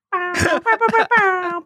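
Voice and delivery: high, breathy little dog yips; yappy panting puppy. Pretend. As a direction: yip like a tiny excited puppy. Puppy noises again.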